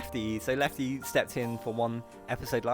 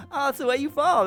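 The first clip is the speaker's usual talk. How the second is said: chatty teammate; 12 semitones higher, 7 dB louder than usual. Retold or imitated. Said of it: "we were like".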